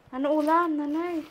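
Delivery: calling out loud to a hard-of-hearing mother. Real, not acted. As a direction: raise your voice so nanay hears. Repeats louder to mother.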